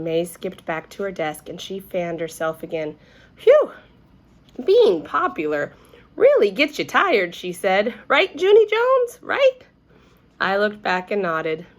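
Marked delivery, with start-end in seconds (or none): 3.4-7.3 puffing. A narrator's reading. May fanning herself after skipping. 8.1-9.6 pushy. A narrator's reading. May pressing Junie to agree.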